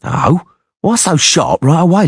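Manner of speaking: a hint of a leering thug; beady-eyed mercenary. A narrator's reading. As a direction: sneer it out as a crude sellsword. Beady-eyed man again.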